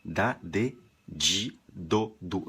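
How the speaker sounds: "di" again softened to "dji"; Brazilian dji. Shown as a demonstration. Teacher repeating the Portuguese syllable row. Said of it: "Não tem lógica".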